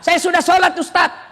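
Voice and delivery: lightly voiced woman telling the ustadz she prays; mock congregant. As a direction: play the congregant boasting lightly. Congregant answering the preacher.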